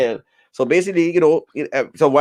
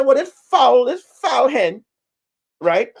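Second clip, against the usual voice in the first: complaining hen; 4 semitones higher than usual. Retold or imitated. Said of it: "He said".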